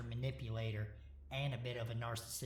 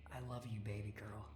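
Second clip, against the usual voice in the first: heavy heart; 5 dB quieter than usual. A narrator's reading. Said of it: "with a heavy heart".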